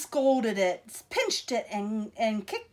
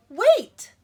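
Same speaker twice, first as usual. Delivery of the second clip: sudden loud, higher call; excited Nellie; 9 semitones higher, 10 dB louder than usual. Acted. Nellie struck by a bright idea, loud and high. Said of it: "said Nellie".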